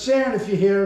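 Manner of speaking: a hint of a flamboyant producer, called out loud and a bit high; calling to a ghost in a showy producer's voice. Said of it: "he's a flamboyant producer".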